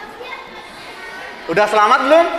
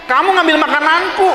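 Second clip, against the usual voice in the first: higher-pitched mock protest; protes anak kesal; 6 semitones higher than usual. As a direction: complain like a kid whose food was taken. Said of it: "ada yang gitu ya". (protes kesal pura-pura, nada tinggi)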